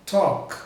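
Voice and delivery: "talk" ending in an unvoiced K; voiceless final K. Shown as a demonstration. Teacher pointing out the ending, "talk" with voiceless K. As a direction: finish "talk" on a K without vibration. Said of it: "Não tem vibração também".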